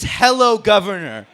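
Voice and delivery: repeating the tease in a light mock British accent. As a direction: parrot the British greeting with a touch of accent.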